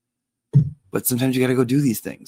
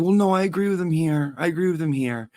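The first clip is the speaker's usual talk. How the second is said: lightly voiced boyfriend, raised pitch; mock boyfriend voice; 8 semitones higher than usual. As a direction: imitate him insisting he agrees. Boyfriend voiced in retold story.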